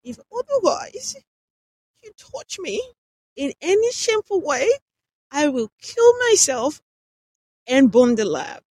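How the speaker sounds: high, loud, breathless desperate pleas; gasping between desperate words. A narrator's reading. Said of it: "She spoke in an intermittently breathless tone".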